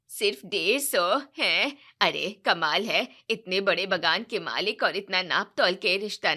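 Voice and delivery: mother-in-law scorning the bride's family; indignant mother-in-law. Acted. Wife indignant about boxes.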